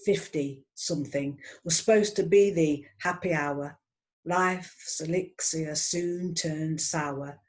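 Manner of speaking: ordinary talk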